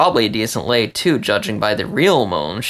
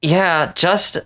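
Vince's reply; 5 semitones higher, much slower than usual. Acted. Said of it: "the rat said".

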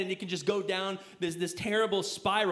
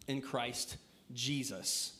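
soft reverent close; 9 semitones lower, 8 dB quieter, much slower than usual. Real, not acted. Scripture reading ending softly.

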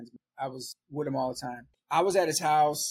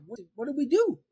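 much higher, alarmed mock panic; 9 semitones higher than usual. Quoting himself as cops kick in the door, mock panic high. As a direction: play the frantic stoner caught out. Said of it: "I'm like".

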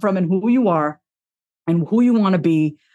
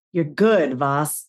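soothing self-talk; 4 semitones lower, much slower than usual. Retold or imitated. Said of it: "That's the voice that I have with myself".

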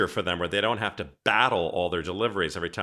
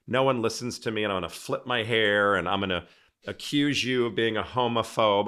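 mock dramatic gay stereotype; 3 semitones higher, 4 dB louder than usual. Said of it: "Instead of walking in a room going".

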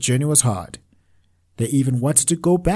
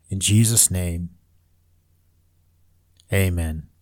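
prayer. Acted. Leads a closing prayer.

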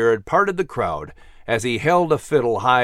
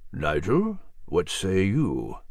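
softer, lower, slow murmur; murmured under breath; 7 semitones lower, 6 dB quieter, slower than usual. A narrator's reading. Gilliman murmuring privately to Nigel, soft and slow. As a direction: keep it under your breath. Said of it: "murmured under his breath".

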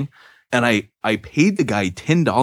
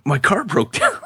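laughing shout; 12 semitones higher than usual. Retold or imitated. Retelling panicked excuse to Andrea.

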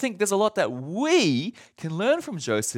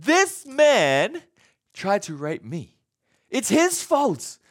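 accusing cry; 3 semitones higher, slower than usual. Acted. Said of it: "And she said".

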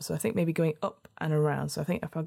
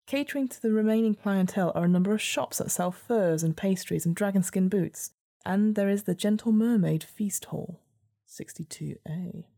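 measured gamebook narrator; story narration. A narrator's reading. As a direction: read it like a storybook.

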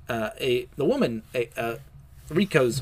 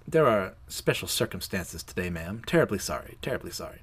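lightly voiced orderly, low and fading softer; sinister polite orderly; 4 semitones lower, 4 dB quieter than usual. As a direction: fob them off with a low, polite apology. Probably evil orderly fobs visitor off.

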